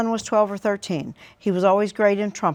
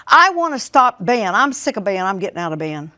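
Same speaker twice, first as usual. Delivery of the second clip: put-on teen's complaint; 5 dB louder than usual. Son's retold complaint.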